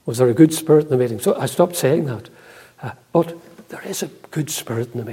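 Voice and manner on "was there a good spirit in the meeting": quick, low teasing jab, lightly voiced; mock question from a son-in-law, lightly done. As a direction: rattle it off like a son-in-law ribbing you. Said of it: "Johnny keeps teasing me".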